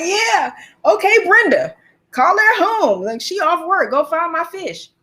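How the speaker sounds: high-pitched sassy comeback; animated mock exasperation; exasperated retort. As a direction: fire back, fed up with the clerk. Acted exasperated reply to clerk.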